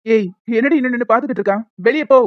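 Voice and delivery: put-on furious yelling at the unwanted girl; angry shout. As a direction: bark it at her: get out. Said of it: "நீங்க கத்தாதீங்க".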